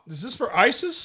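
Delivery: pained shout. Real, not acted. Burning pickle, shouting out.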